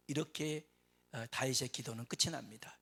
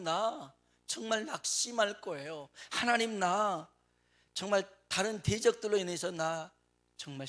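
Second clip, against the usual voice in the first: David pleading; 4 semitones higher than usual. Retold or imitated. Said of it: "다윗이 하나님 앞에".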